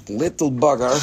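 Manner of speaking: a lightly voiced little bugger; affectionate repeat. Shown as a demonstration. Seller cooing at a tiny crystal, lightly voiced. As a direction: say it fondly to the crystal.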